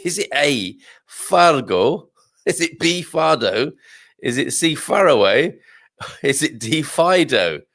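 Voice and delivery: real giggles breaking in between options; giggly quiz options. Real, not acted. Quiz host amused by the silly answer options, giggly. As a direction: read out the choices while trying not to giggle. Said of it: "Which caused me to giggle quite a lot".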